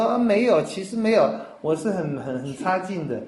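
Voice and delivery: imitating a falsely modest believer who waves off a compliment; fake modesty. Preacher mimics a Christian's fake humility, hammed-up self-deprecation. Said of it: "你那假客气".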